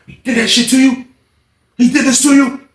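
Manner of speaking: high-pitched disbelieving question; incredulous questioning. Retold or imitated. Young boy's indignant question, acted.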